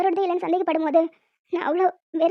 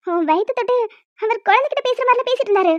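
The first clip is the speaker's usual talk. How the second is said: excited; 3 semitones higher than usual. Acted. Sister excited, teasing.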